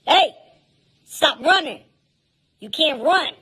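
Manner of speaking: high, loud lifeguard shout; lifeguard yell. Retold or imitated. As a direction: bark the pool rules at the kids. Lifeguard yelling at running kids.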